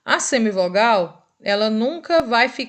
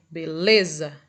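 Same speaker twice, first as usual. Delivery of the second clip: "beleza" with a lingering, stressed LE, pitched lower; stressed middle syllable; 5 semitones lower, slower than usual. Shown as a demonstration. Teacher confirming the answer for students, "beleza" stressed on LE. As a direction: hold the le in "beleza". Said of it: "O lê".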